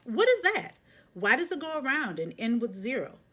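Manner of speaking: put-on high, loud child asking what is that; a little girl bursting with curiosity; excited child question. Curious child asks in car.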